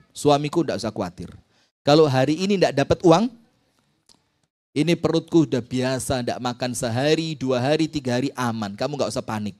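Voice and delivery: calm him gently so he won't worry; tender reassurance. Retold or imitated. Wife reassures husband.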